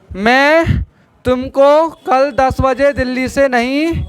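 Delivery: drawn-out words with long pauses; slow dictation. Shown as a demonstration. Teacher sets the class the next sentence, slow dictation. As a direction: dictate slowly, piece by piece.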